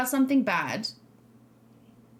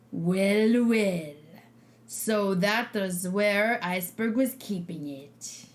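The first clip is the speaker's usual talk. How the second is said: bone rattle; 4 semitones lower, slower than usual. Acted. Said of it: "I'm trying to do creepy skeleton face. Voice".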